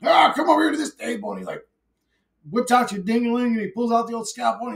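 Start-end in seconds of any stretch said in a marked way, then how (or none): 0.0-1.3 doctor voice. Retold or imitated. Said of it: "And then he's like".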